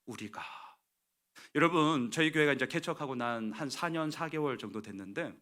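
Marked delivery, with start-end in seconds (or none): 0.1-0.4 very soft, low voice; subdued, falling away; humble "we". Acted. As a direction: say it quietly, owning the fault. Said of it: "느헤미야는 얘기합니다".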